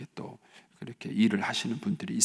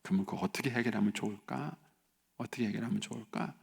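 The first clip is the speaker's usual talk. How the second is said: calm understanding parent; 6 dB quieter than usual. Acted. Parent calming child, asking for solution.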